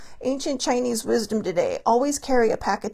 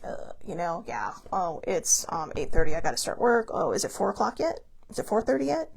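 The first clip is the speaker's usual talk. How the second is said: low, much softer, bored and dragging; bored sigh; 3 semitones lower, 5 dB quieter than usual. Pretend. Bored worker counting hours until quitting time, low and soft. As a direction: mope through the workday clock-watching.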